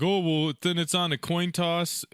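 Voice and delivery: slow, mock-casual shrug of a quote; lightly mocking league voice; mock dismissive. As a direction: brush it off like the league does. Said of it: "You know, like".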